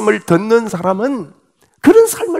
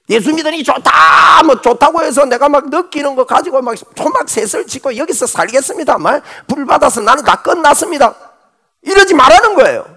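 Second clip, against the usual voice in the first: mock giddy believer; 5 semitones higher than usual. Mocking overexcited believers.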